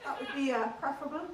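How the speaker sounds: lilting Irish accent demonstration. Shown as a demonstration. Comic teaching an audience the Irish accent, in Irish accent. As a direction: talk like an Irish speaker. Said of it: "that's Irish for you".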